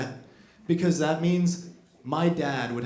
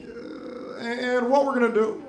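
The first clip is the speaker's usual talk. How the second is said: much higher, louder measured orator voice with pauses; Obama impression; 9 semitones higher, 5 dB louder than usual. Obama proposing a harsh policy in his calm oratory. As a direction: deliver it like a smooth statesman. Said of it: "Obama could be like".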